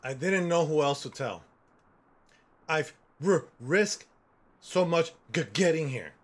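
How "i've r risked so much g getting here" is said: stuttering voice. Retold or imitated. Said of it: "know that I stutter".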